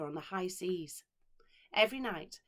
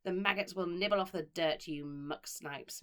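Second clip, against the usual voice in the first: a hint of gloating nasty matron; lightly voiced matron sniggering at orphans. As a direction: snigger through it. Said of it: "Missus Curdle would snigger".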